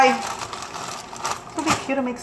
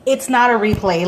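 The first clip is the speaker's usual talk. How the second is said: loud, firm correction at usual pitch; firm retort; 5 dB louder than usual. Retold or imitated. Correcting people who dismiss the new Grinch, firm. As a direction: set them straight firmly. Retold retort to everyone, first take.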